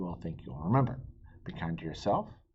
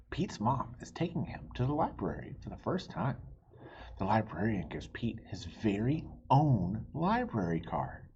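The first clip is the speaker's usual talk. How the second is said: gentle storybook reading voice; story narration; 3 semitones higher than usual. A narrator's reading. Reading a picture book to young listeners, gentle narration. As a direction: read it like bedtime story time.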